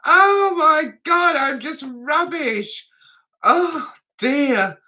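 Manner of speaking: slow, high, breaking into laughter; laughing at herself. Real, not acted. Embarrassed at her French, laughing. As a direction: wail it through laughter.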